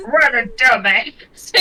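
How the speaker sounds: amused laugh at the end. Real, not acted. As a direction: chuckle it out. Laughs at the punk.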